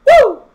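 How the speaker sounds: loud high whoop; sudden celebratory woo; excited whoop. Real, not acted. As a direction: let out a big cheer. Cheering a chat shout-out.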